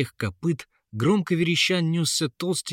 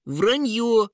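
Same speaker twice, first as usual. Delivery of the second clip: much higher, louder piglet squeak; 12 semitones higher, 5 dB louder than usual. A narrator's reading. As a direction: squeak a protest. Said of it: "пискнул поросёнок". (писк поросёнка)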